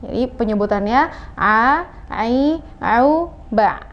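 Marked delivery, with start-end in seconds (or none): 1.4-3.9 slow, not overdone ain; moderate ain. Shown as a demonstration. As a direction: say a, ai, au, ba from the mid throat without forcing. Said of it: "tidak seberlebihan itu".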